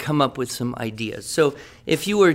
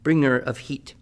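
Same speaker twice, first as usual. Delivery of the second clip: grand, fond recital of an ode; poem recital. Acted. Teacher reading his ode to the jalapeno to the class, in a fond recital. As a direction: read it like a loving tribute poem.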